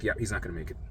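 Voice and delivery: said low and quiet. Retold or imitated. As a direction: drop voice low and soft. Doctor's verdict, low quiet take.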